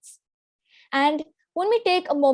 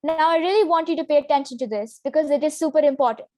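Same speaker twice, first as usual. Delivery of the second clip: lower, serious and fast; low pitch; faster than usual. Shown as a demonstration. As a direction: drop the pitch to sound authoritative. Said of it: "And with the low pitch, it sounds like".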